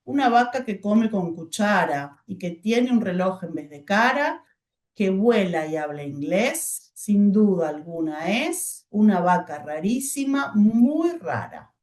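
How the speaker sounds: slow, clear pause at each comma; reading with pauses. Shown as a demonstration. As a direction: read the verse slowly with pauses. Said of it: "Otra, versitos".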